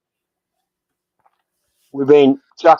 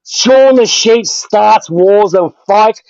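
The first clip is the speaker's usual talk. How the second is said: angry rant; 5 semitones higher than usual. Real, not acted. Heated insult fight on stream.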